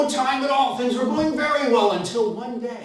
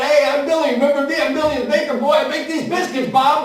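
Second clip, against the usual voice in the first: proud Billy; 4 semitones higher, 5 dB louder than usual. Acted.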